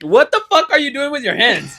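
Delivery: loud, high disbelief; incredulous. Real, not acted. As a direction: call out the odd gestures. Reacts to friend's hand gestures.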